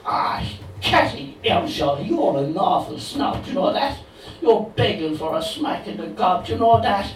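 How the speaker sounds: lightly voiced Cork Heathcliff; dodgy Cork accent. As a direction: tell her off in a Cork lilt. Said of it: "delivered in a dodgy Cork accent".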